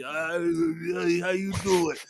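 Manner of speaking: high, raspy put-on greeting; raspy Boston woman. Mocking a Boston woman's raspy greeting, high put-on voice. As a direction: play an old raspy Southie woman saying hi. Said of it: "had this old raspy".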